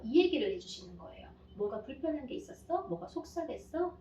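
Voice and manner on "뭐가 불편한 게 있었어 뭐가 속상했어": soft, rising caring question; quiet tender check-in with the child; gentle asking. Shown as a demonstration. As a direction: coax the child to open up. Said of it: "이렇게".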